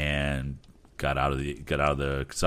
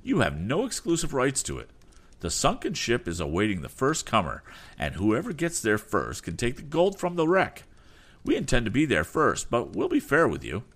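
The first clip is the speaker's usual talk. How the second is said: bold reply; 8 semitones higher than usual. Acted. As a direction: throw it back boldly. Rival voice continues.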